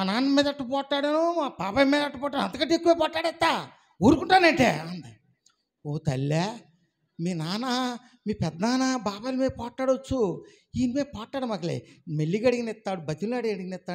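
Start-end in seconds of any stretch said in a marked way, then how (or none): 5.9-13.9 gentle advice. Retold or imitated. Pastor gently advising woman.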